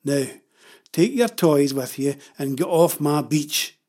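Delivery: slow, loud, firm order; angry order. Acted. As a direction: order them off your land. Father orders protesters off beach.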